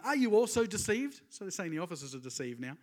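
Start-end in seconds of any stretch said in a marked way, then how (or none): 0.0-1.2 higher, louder scornful question; accusing Pharisees. Retold or imitated. Pharisees scolding the officers, mock scornful challenge. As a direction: sneer at the officers. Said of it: "the Pharisees answered them".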